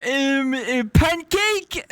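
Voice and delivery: mock French accent. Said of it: "mimicking the girl's answer".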